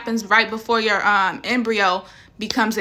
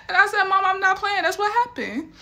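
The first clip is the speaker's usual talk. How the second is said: much higher, words through laughter; laughing while talking; 10 semitones higher than usual. Real, not acted. Daughter insisting to mom through laughter.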